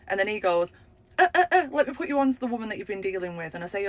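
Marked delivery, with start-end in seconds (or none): 1.2-3.5 high flustered stammering; mock the guy panicking; hint of a rattled shop guy. Flustered guy passing call.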